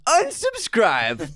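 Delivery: high, very slow mock threat; teasing drawn-out threat. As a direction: drag out the threat for laughs. Jokey verdict.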